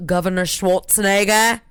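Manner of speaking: loosely imitated Austrian accent on the name; attempted Austrian accent. Host naming a famous guest, in a botched Austrian accent. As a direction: have a half-successful go at an Austrian accent. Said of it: "I was trying to do his Austrian".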